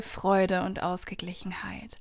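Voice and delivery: whispering. Real, not acted. Sudden whisper after loud line.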